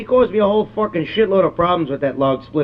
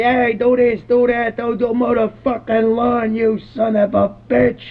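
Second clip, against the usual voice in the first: higher, slower imitation of a nagging wife; husband imitating his wife's nagging, pitched higher; mock nagging wife; 6 semitones higher, slower than usual. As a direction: mimic the old woman barking orders at him. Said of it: "She's screaming his shit".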